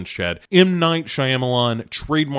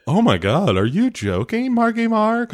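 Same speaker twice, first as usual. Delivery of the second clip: high mock gush; 9 semitones higher than usual. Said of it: "she's like".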